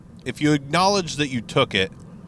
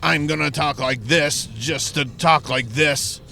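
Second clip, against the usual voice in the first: mocking the vocalist; 3 semitones higher than usual. Reviewer mocking the song's vocalist, lightly put-on voice. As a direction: lightly parody the vocalist's talky delivery. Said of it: "the vocals have just gotten to the point to where they're like".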